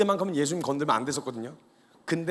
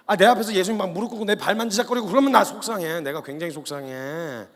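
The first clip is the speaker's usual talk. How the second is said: upset protest; 2 semitones higher, 5 dB louder than usual. Acted. Peter refusing to let Jesus wash his feet, upset protest.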